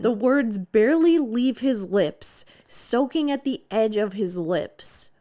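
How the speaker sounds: measured, pointed repeat of a puzzling sentence; deliberate re-reading. Shown as a demonstration. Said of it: "Let me just read that to you again".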